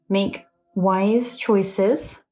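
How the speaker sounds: drawn out, pausing between words; slow and deliberate. Real, not acted. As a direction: read it out very slowly, word by word. Reading the owl charm's message.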